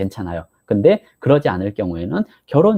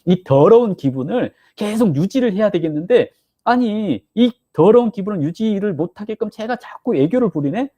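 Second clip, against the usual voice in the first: mock irritation; 7 semitones higher than usual. Voicing annoyed partner being coaxed.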